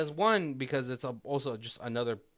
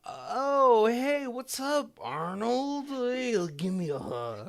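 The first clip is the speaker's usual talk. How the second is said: much higher, louder, slow and dopey; dopey lobotomized guy; 12 semitones higher, 4 dB louder, slower than usual. Retold or imitated. The lobotomized son greets his old friend, high and dopey. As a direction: play him cheerfully vacant after the lobotomy.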